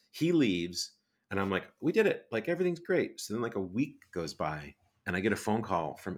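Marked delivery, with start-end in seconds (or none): 1.8-3.2 much higher, louder cry of relief; triumphant relief. Retold or imitated. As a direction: crow it like you just pulled it off. Relief after getting autograph.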